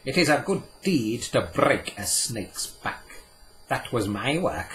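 put-on old moneylender boasting of ruining a king; triumphant cry. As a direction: proclaim the deed in triumph. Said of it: "he cried triumphantly to Puck".

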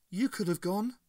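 flat monotone voice. A narrator's reading. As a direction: say it in a dead monotone. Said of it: "she said in a monotone".

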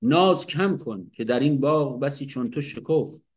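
measured recital of the verse; poem recitation. Shown as a demonstration. Teacher quoting Hafez's verse, measured poetic recital. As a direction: read the lines as a poem. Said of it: "میگه".

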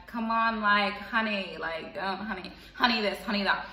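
put-on light jokey London accent. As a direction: mess around in a London accent. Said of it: "you know, in the London accent".

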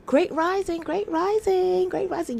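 high, loud repeated greeting; excited call. Real, not acted. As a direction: call it out to the viewers with joy. Sign-off call to viewers.

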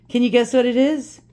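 teasing singsong. Real, not acted. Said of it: "I'm gonna tease you".

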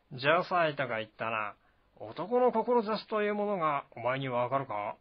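put-on general testing the young commander; Zhang Fei, challenging.

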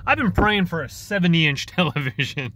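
amused, a laugh slipping out mid-sentence. Real, not acted. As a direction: chuckle breaking into the words. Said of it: "I don't know why I'm laughing".

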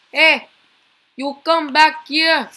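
loud angry shout at a fleeing character; yelling. Real, not acted. Gamer yelling at a runaway character, loud and angry. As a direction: yell to make him come back.

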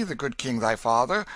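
king naming himself warmly; gentle king. Acted. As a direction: lean kindly on the good king thy father. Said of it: "his face grew gentle".

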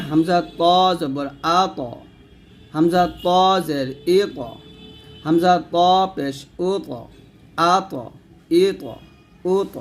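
thick, echoing bounce after ত; thick qalqalah. Shown as a demonstration. Teacher drilling the letter ত, thick qalqalah. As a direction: give ত a heavy rebound, sound lifted upward. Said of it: "তটা একই রকম হবে".

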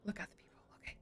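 hushed aside; whisper. Real, not acted. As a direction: murmur it very quietly. Hiding from monster.

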